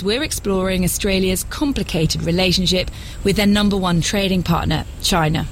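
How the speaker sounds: measured radio presenter read; documentary narration. Acted. Presenter introduces a radio series to listeners, documentary narration. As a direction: introduce the programme as a scripted broadcast.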